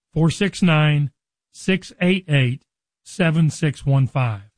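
slow, digit by digit with long pauses; slow dictation. Real, not acted. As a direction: read the number out slowly for note-taking. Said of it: "I'm gonna say it slow enough".

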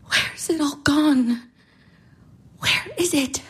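whispered bewilderment; a hushed, lost question. Acted. Irina lost and despairing.

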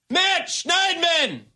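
high and slow, stretching the name out; drawn-out exasperated wail. Real, not acted. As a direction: moan the name in slow despair.

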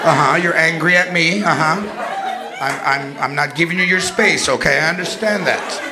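lightly voiced mother, calm and sugary; hushed therapist-style mom keeping it together; mock calm mother.

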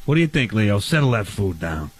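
growl-free low mock voice telling them to settle; deep put-on voice. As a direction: drop the voice way low and play it heavy.

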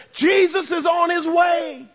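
high, urgent news call; excited announcement. Acted. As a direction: burst in with the news. Messenger bursts into the house.

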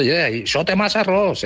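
high, slow teasing drawl; another nosy friend. Retold or imitated. A second onlooker teases the cook about the rice, high and slow. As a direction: stretch it out like a know-it-all. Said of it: "Después ya otro".

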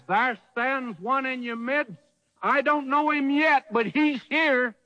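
prophet's announcement. Retold or imitated. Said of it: "John says".

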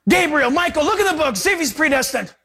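high, hammed-up order; mock urgent God. God ordering angels to check, mock urgency. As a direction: send helpers off in mock alarm.

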